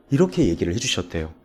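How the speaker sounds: ordinary delivery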